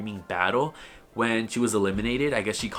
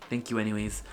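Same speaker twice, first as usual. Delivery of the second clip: mock annoyed; 5 dB quieter than usual. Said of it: "like, all annoyed".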